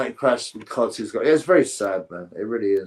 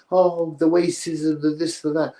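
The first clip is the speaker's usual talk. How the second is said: sarcastic mockery; 4 semitones higher, slower than usual. Mocking the Hollywood story.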